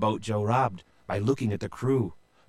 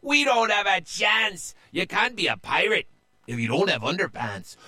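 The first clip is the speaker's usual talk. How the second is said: high, fast, panicky whine; panicky pirate; 9 semitones higher, faster than usual. A narrator's reading. Panicked pirate telling crew, fast and high. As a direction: babble out the fear. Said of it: "another said".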